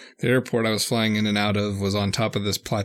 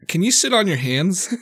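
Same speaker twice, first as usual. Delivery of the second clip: laughing; 8 semitones higher, 3 dB louder than usual. Retold or imitated. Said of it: "and he was like".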